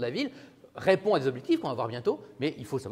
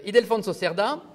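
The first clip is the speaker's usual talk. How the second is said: higher, louder put-on Spanish accent; 6 semitones higher, 5 dB louder than usual. Shown as a demonstration. Lecturer naming the author to students, Spanish accent. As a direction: announce the name in showy Spanish. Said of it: "j'ai un hyper bon accent, euh, espagnol".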